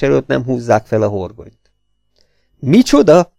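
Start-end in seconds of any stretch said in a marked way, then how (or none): 2.6-3.3 shocked bark, louder; outraged exclamation. Acted. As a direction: roar it in disbelief. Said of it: "Hördült fel".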